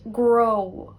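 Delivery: grow, Ulster gr sound; Ulster pronunciation. Shown as a demonstration. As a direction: grow said with gr for written gn. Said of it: "the word for business".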